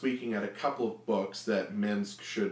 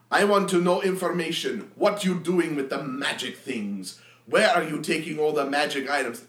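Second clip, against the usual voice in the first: louder brash demanding warrior; interrogating Minsk; 4 semitones higher, 5 dB louder than usual. Acted. Minsk interrogates the deacon at knifepoint, loud demanding. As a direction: bark questions at him.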